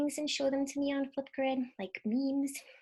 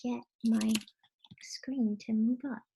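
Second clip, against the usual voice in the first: frustrated whisper. Real, not acted. Presenter unable to scroll, whispering in frustration. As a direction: let it fade into a frustrated whisper.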